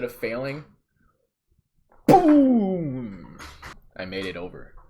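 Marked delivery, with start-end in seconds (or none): 2.1-3.4 high, loud "boom!"; big excited yell; triumphant shout. Retold or imitated. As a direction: slam it out like a landing. Landing the leap.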